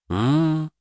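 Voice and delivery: long high knowing m-m-m; woman hums that she understands; knowing drawn-out hum. A narrator's reading. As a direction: draw out an understanding hmm. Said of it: "понимающе протянула женщина".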